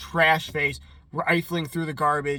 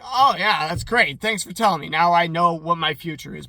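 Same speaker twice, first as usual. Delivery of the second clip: sarcastic reply; 5 dB louder than usual. Retold or imitated. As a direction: thank him with heavy sarcasm. Ryan's sarcastic reply to Trash Face.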